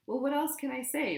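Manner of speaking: high, loud defiant shout; shouting back. A narrator's reading. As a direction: fight back hard. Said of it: "Ron shouted".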